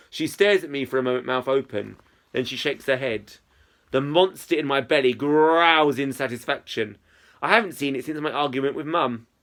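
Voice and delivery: clear, expressive audiobook reading; story narration. A narrator's reading. Narrator telling of a chat with Izzy, story narration. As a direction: read the story aloud with lively phrasing.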